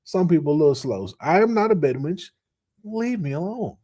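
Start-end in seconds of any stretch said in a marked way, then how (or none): 1.2-3.8 a hint of an offended sister, trailing off; mock indignant woman. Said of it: "I had to translate".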